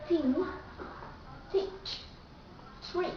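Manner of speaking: thin, teach, trip with the T clearly pronounced; true T. Shown as a demonstration. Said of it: "you have to pronounce T in the word".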